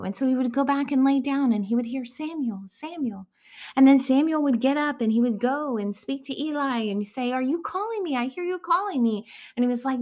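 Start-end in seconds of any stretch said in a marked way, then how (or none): 2.0-3.3 hushed, breathy calling of a name; a soft whispered summons; God's soft call. Acted. God calls Samuel again. 7.3-9.3 put-on higher, eager boy asking; a child who was just woken; young Samuel asking the old priest. Young Samuel running to Eli.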